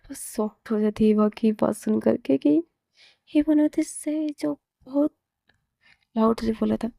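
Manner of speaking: ordinary delivery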